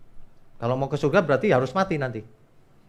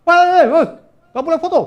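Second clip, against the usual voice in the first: mock angry yell, very high and loud; imitating angry shouting; 9 dB louder than usual. Angry stranger stops tourists taking photos at the wall, mock furious shout. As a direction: holler a scolding in someone else's voice. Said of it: "ada yang marah-marah loh".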